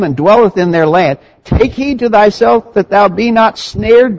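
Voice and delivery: emphatic, declamatory scripture reading. A narrator's reading. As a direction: read the verses out firmly, phrase by phrase.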